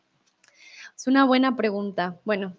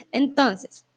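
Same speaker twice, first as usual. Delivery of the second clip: whisper. Real, not acted. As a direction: breathe "Entonces" out without voice. Sudden whisper.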